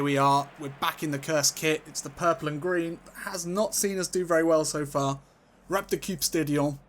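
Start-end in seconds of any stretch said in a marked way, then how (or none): 5.7-6.8 badly aimed French accent on Dutch. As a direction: attempt a Dutch name, landing in French. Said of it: "And that was a French accent".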